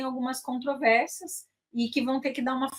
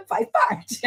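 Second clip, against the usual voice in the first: squeaky jump way up on Faz parte; high teasing faz parte; high mock; 11 semitones higher than usual. Joking about getting older.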